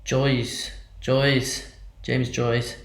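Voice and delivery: hushed, chant-like whisper; whispered incantation. Acted. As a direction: summon him under your breath. Summoning invocation to travel.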